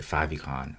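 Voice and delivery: "favicon" as FAV-ee-con; alternative pronunciation. Shown as a demonstration. Instructor offering one way to call it, "favicon" pronounced FAV-ee-con. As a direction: say "favicon" with a short first vowel, FAV-ee-con. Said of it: "whichever way you wanna call it".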